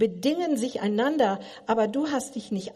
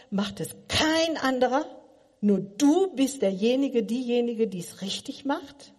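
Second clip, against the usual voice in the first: usual speaking voice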